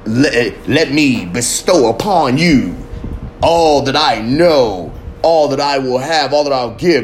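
slow, mock-solemn vow; mock grand suitor. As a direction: ham up a pompous offer, slowly. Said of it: "This ain't motherfucking".

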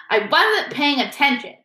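dramatic Moaning Myrtle. A narrator's reading. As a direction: make a tragic show of it. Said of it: "said Myrtle dramatically".

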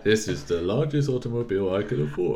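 put-on cartoon giant voice; Simpsons giant guy impression. Mocking the film actor to his co-host, cartoon giant voice. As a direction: voice a big lumbering Simpsons character. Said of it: "He sounds like".

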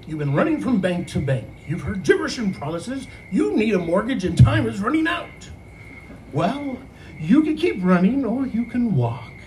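mild radio ad announcer voice, the last line slowed; radio announcer read. Retold or imitated. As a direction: read it like a small-town radio spot. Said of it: "read it like every radio announcer".

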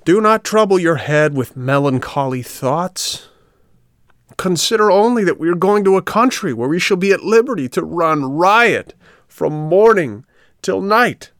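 a hint of a smooth tempter, drawing out the end; coaxing little man. Coachman coaxing the boys.

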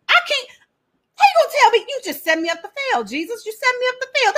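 high, mock-crying complaint; hammed-up tearful protest, high and breaking; mock wail. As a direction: wail that Jesus set you up to fail. Healed man wailing at Jesus.

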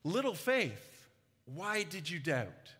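Jesus' gentle rebuke. Acted. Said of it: "Jesus calls Peter little faith".

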